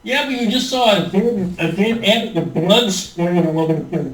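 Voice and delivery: muffled underwater sound; bad connection, like underwater. Real, not acted. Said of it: "you sound like you're underwater sometimes".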